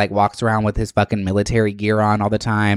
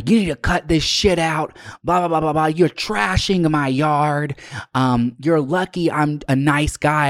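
mocking the neighbor; 6 semitones higher than usual. Neighbor scolding her by the car, high mocking voice. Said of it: "and he's like".

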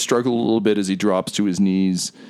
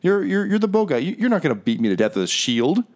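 stammering captive, higher than the narration; cornered man protesting, pitch jumping about; blustering captive; 3 semitones higher than usual. Acted. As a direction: talk back to your interrogators, tripping over words. Game master plays the captive.

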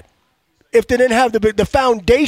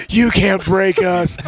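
imitating captain cheer; 4 semitones lower, much slower than usual. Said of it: "But then you got Zach".

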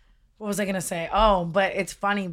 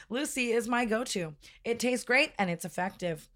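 upbeat sponsor read, then a quicker flat disclaimer; podcast ad read; 3 semitones higher than usual. Acted. Host reading a nicotine sponsor ad to listeners, upbeat ad read.

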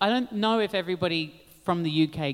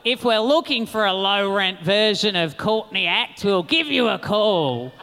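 a hammed-up Australian accent as Willem or Alaska would do it; mock Australian accent; 4 dB louder than usual. Drag queens mocking her Australian accent, done badly. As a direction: put on a terribly done Australian accent, slightly louder. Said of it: "I always do myself impersonating Willem or Alaska doing my accent".

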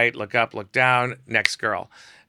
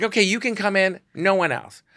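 upset model; 10 semitones higher, 4 dB louder than usual. Retold or imitated. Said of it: "She's like".

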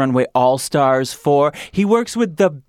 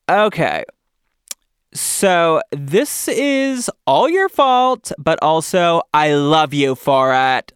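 Kaylee voice; 2 semitones higher, 3 dB louder, slower than usual. Retold or imitated. Host reading a listener's note in a lightly voiced fan voice. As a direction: read the fan note in a mild put-on voice. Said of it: "this is my Kaylee voice".

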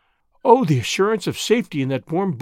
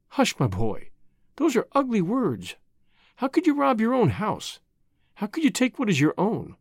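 gently soothing her son, a touch softer; calm him with tender reassurance; soft mother's voice; 4 semitones higher than usual. A narrator's reading. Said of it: "That soft voice".

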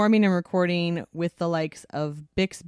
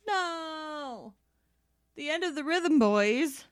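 mock dismay; 11 semitones higher, 3 dB quieter, slower than usual.

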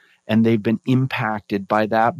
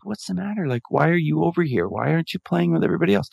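retold quick, higher-pitched concern; gently probe, a little fast and high; concerned questioning; 5 semitones higher, much faster than usual. Teacher questions left-out boy in story.

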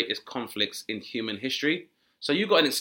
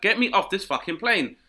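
panicked passenger; 7 semitones higher, 5 dB louder than usual. Retold or imitated.

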